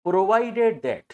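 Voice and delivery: drawn out word by word; slow dictation. Shown as a demonstration. Teacher giving students the proviso's wording, slow dictation. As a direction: dictate it very slowly for note-taking.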